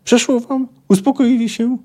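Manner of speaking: high-pitched exasperated demand; scolding shout. Acted. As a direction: snap questions at misbehaving fighters. Milwa thrashing and scolding the brawlers.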